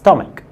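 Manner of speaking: stomach as "stum-ak"; correct stomach. Shown as a demonstration. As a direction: model the word stomach for the class. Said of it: "اسمها ايه؟".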